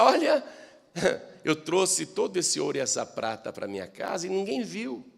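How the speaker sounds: sly whisper-like boast with a laugh; Achan gloating. Acted. Thief Achan to himself about the hidden gold, sly. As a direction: chuckle as if you got away with it. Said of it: "O Acã pensa".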